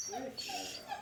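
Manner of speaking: breathy whispered praise. Real, not acted. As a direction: whisper it gently.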